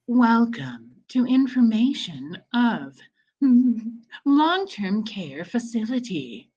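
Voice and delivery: like a recorded elevator announcement. Shown as a demonstration. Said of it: "I'll put on my elevator voice".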